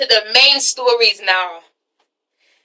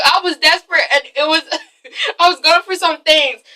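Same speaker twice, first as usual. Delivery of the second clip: laughing excuse; 3 semitones higher than usual. Retold or imitated. Acts Terrence while cracking up.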